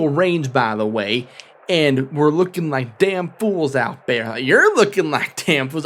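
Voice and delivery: lightly voiced furious captain venting at the warden; mild mock rant; angry guard captain voice. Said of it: "You ever choke on your own character voice".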